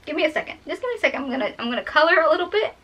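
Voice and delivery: holding back real tears; close to crying. Real, not acted. Storyteller asking for a second so she won't cry, close to crying. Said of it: "I'm gonna cry anyways".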